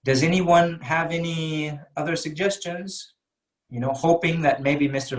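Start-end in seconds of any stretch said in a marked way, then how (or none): 0.0-3.1 open question. Shown as a demonstration. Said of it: "I would say".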